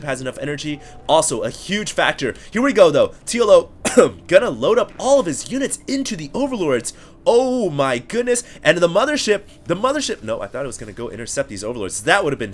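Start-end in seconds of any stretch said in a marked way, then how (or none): 2.5-9.4 rising excitement, louder and higher; excited caster hype. Real, not acted. Excited casting of a drop. 9.6-10.2 excited second call of the Mothership. Real, not acted. Repeated higher.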